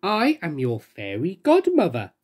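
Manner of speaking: slow, gentle and kind; kindly. Acted. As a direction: reassure the frightened girl. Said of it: "said the woman kindly".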